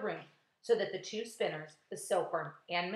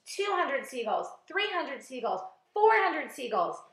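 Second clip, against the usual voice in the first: slow, raised count, building higher and louder; shouted tally; 5 semitones higher, 5 dB louder, slower than usual. A narrator's reading. James counting captured seagulls for the crew, shouting. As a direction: call out each total, stretched and mounting. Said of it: "he shouted".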